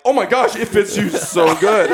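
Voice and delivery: giggling fake compliment; mock praise laughing. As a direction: tease her while holding back laughs. Family teasing about tight jacket.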